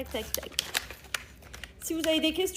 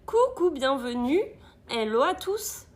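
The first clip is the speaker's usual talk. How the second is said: welcoming greeting; 5 dB louder than usual. Real, not acted. Greeting viewers.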